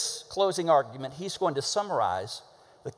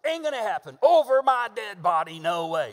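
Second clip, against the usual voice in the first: raised-pitch, defiant refusal; emphatic refusal; 3 semitones higher than usual. Shown as a demonstration. Preacher acts out all-caps meaning, emphatically refusing. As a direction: put your foot down hard. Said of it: "It's a totally different communication".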